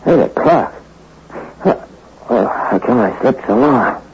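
dazed waking mumble turning alarmed; groggy confusion. Acted. Husband waking late, confused, calling for his wife. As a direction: wake up lost and worried.

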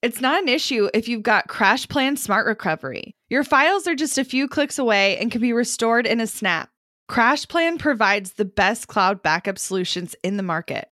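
scripted, lively sponsor spot; ad read. Acted. Host pitches backup service to listeners, polished ad read. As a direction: sell the product in a tidy, practised read.

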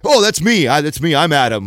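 put-on drunk guy. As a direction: pipe up like the drunk claiming the cab. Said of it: "drunk guy in the back".

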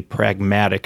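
"pragmatic" said slowly and deliberately; stress on PRAGMATIC. Real, not acted. Interviewer introducing guest's article, stressing "pragmatic". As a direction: give "pragmatic" careful, measured emphasis. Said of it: "emphasis on pragmatic".

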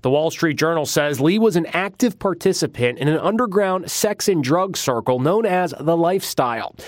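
punchy tabloid news read; tabloid tv host. Acted. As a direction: sell the scandal like a tabloid host. Tabloid crime report read.

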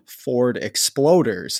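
"Ford Exploders" said slowly as a joke; shop slang name. Retold or imitated. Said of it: "That was just our lingo".

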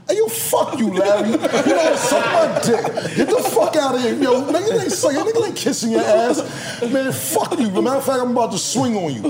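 going off on him, ready to swing; retold angry yelling. Retold confrontation, yelling at Larry.

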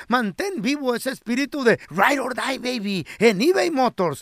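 locución comercial animada, directa al oyente; lectura de anuncio. Acted. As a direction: vende las piezas con entusiasmo. Anuncio de eBay Motors. (locución de anuncio publicitario)

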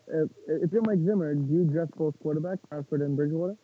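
muffled, garbled bad connection; words bubbling through water; underwater. Real, not acted. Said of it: "you sounded like you're underwater".

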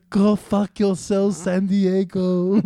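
hammed-up movie quote, drawn out; mock Anchorman line. Quoting Anchorman at the host, slow and hammed-up.

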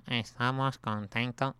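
slow, slack footballer drawl; lazy Iniesta voice. Retold or imitated. Host contrasting Iniesta's lazier press voice, slow and slack. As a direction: let the words sag lazily. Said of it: "Iniesta es como más vago".

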